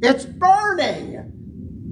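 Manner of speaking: hammed-up screaming pilot in panic; mock panicked scream. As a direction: ham up a pilot's sudden terror. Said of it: "starts screaming".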